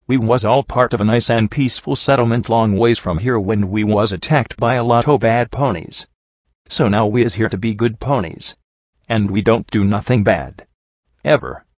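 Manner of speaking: lightly voiced simple-minded henchman, pleading innocence; a hint of a rustic lout reciting a story; earnest dim brute. Scarred brute tells security the sob story, lightly voiced earnest henchman.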